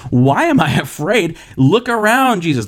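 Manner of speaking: mock yell over wind and waves; shouting over the storm. Frightened disciples answering Jesus in the storm, half-shouted protest. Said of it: "they're shouting over the storm".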